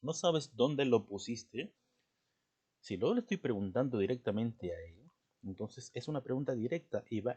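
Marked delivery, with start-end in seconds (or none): 0.0-1.7 slow, deliberate question with a rise on "pusiste"; direct question. Shown as a demonstration. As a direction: ask "dónde lo pusiste" slowly, straight to the listener. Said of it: "le preguntaría".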